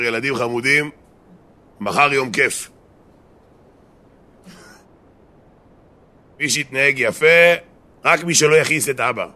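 lightly voiced coaxing dad, stretched phrases; wheedling father. Guilty father making up with his children, wheedling.

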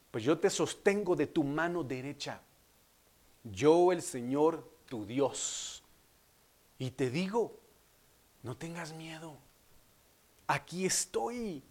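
solemn, tender divine promise; gently reassuring. Acted. Preacher voices God reassuring believers.

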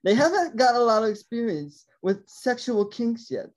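slow, put-on British accent; drawn-out British narration, lightly done. Host shows off the British voice reading about Hannah and Wesley, mock British accent. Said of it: "I do my British voice".

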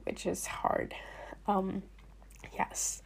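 sick, strained robotic voice. Real, not acted. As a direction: voice going strange from covid. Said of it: "I sound like a robot".

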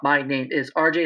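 "My name is R J" in separate words, dropping off; masculine intonation. Shown as a demonstration. Pathologist repeats men's intonation, "My name is R J" separated and dropping. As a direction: break up "My name is R J" and let it drop. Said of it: "drop off at the".

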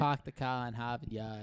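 put-on slow Boston accent, the r sounds dropped; the classic Boston line in a Boston accent. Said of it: "How does a Bostonian say it?".

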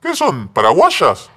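high, loud blurted questions; unrestrained shouting. Retold or imitated. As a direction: imitate someone yelling questions across a train. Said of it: "estás gritando desaforadamente".

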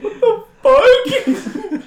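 drawn-out, high-pitched outcry; stunned disbelief. Retold or imitated. Worker retelling his morning to friends, stunned. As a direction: stretch it out in squeaky mock shock.

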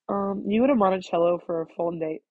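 nasal, stuffy-sounding voice. Real, not acted. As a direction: talk through the nose. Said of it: "I am so nasally".

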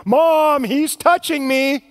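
drawn-out whiny tattle, slow; whiny tattling little sibling. Retold or imitated. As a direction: lightly mimic a tattling kid. Kids complaining in back seat.

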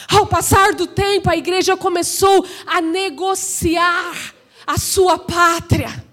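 emphatic pulpit declaration. Real, not acted. Preacher charging that the church negotiated its homeland, emphatic. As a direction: proclaim it, easing on the last phrase. Same sentence repeated with raised voice.

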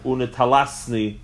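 unitalasni with an open "ta" in the middle; old spelling. Shown as a demonstration. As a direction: say unitalasni as "u-ne-ta-LAS-ni". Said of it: "Some had, old, some old Chabad Siddurim had it".

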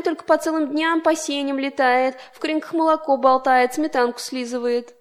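tut-tut at the poor groom's bride; scolding crickets. Acted. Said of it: "давай невесту комарикову корить". (с укором, отчитывая)

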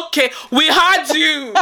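slow, dismissive imitated Nigerian parent; lightly voiced parent, unimpressed by the sneezing. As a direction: draw it out like a dismissive Nigerian mum or dad. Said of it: "Why do Nigerians do that?".

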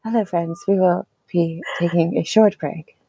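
hushed mock announcement; mock podcast voice. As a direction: play the soothing podcast host. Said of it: "what I feel like my podcast voice should be like".

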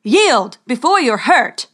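a hint of a sneering knight; calling out. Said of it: "called Reynard".

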